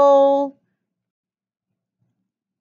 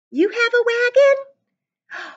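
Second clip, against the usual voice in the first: high, slow, wide-eyed question to the class; delighted pretend wonder; mock surprise; 10 semitones higher, slower than usual. Teacher marvels to an imagined pupil, high and slow.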